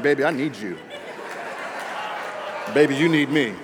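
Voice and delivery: lightly hammed-up lovestruck plea; mock pleading to a sweetheart; smitten suitor. Preacher teasing the fellas about wooing that girl, mock smitten suitor. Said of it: "you be like".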